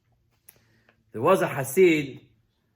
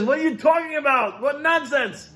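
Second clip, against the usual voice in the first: incredulous outburst; 10 semitones higher, 4 dB louder than usual. Acted. Man rejects the Hasid's terms.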